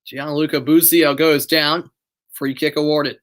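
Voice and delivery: live match commentary voice; steady broadcast commentary; play-by-play. Acted. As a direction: call the game as it happens.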